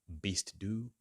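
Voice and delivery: bist du von Beruf said slowly; slow teacher drill; slow model phrase. Shown as a demonstration. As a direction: spell it out slowly.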